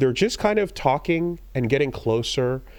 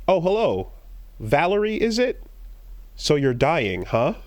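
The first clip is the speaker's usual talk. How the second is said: a lightly voiced, higher, sly doll; doll's greeting; 4 semitones higher than usual. Doll greeting the player, lightly voiced higher and sly. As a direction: purr it like a knowing android host. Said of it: "the doll, like, b-, turns and goes".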